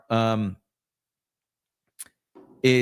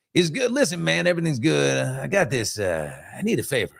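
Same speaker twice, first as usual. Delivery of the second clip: Rudy's voice; 2 semitones higher than usual. Retold or imitated. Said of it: "talks like this".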